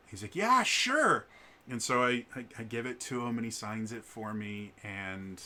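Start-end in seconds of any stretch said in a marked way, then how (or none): 0.3-1.3 high, light imitation of Chris; playful high-pitched impression of a kind host; cheery agreement. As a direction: toss off an eager yeah sure.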